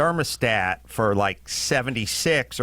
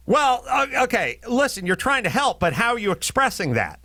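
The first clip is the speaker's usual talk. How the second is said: patronizing advice; 8 semitones higher than usual. Retold or imitated. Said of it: "everyone's always like".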